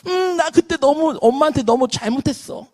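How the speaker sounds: a touch of regretful whimper; acted remorse. Pastor replaying his regret toward mother, mildly remorseful.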